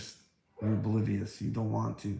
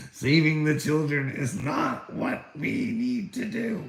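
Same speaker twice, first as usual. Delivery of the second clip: higher, put-on voice of a dismissive official; mocking critics; 5 semitones higher, 3 dB louder than usual. Vlogger mimicking the people who reject him, mock-pompous. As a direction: announce it smugly like a bureaucrat.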